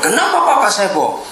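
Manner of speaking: imitated anger. Pastor retelling the angry child's accusation, imitated anger. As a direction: mimic an upset person's accusing outburst. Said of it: "Itu kan dia marah dong".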